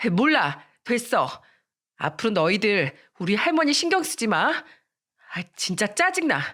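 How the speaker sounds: mildly snappish brush-off; annoyed outburst. Acted. Miran lashing out at a friend, mildly angry. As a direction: dismiss them with a touch of irritation. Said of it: "괜히 다른 친구한테까지 화를 내더니".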